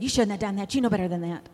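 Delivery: mild mock scolding; mildly angry parent. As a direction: act out a slightly cross parent telling a child off. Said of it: "I got angry and said".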